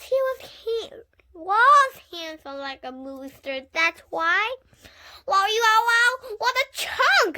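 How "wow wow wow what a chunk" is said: high loud starstruck wow; impressed wow. A narrator's reading. Junie B swooning over Warren, high and loud. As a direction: swoon over the cute boy. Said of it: "I said".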